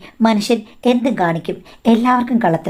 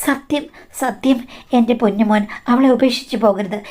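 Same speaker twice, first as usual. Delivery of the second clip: begging him not to leave; mild mock-weeping vow; tearful oath; 2 semitones higher than usual. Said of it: "കെട്ടിപ്പിടിച്ച് പൊട്ടിക്കരഞ്ഞു".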